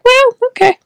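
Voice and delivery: a light breezy shrug from the being; mock dismissive voice.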